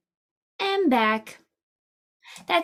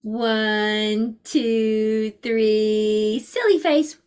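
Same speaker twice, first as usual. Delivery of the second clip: playful countdown; much slower than usual. Shown as a demonstration. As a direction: build to a bright call on silly face.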